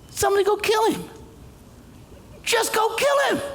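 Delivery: mock outraged shout; indignant call. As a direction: demand it like an outraged kid. David's indignant outburst.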